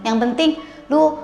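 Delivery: acted offhand demand. Acted voice of someone not needing time.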